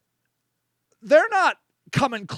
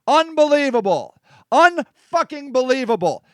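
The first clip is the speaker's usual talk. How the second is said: outraged disbelief. Real, not acted. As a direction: land each word in real outrage. Host's outraged reaction to the video.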